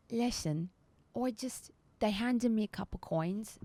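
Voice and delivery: lightly voiced cockney confession; cockney, nervous and hushed in places; cockney satyr. Satyr spilling the plot to the captors, cockney. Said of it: "still with this accent".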